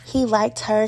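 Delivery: ordinary talk, nothing marked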